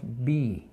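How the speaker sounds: BEE with a long ee sound; pronunciation demo. Shown as a demonstration. Teacher modelling English for Spanish speakers, demonstrating BEE with long ee. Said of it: "entonces pronunciamos".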